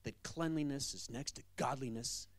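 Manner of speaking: slow, preachy imitation of the landlady; mocking landlady. Pastor imitating the angry landlady scolding him about cleanliness. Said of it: "she says".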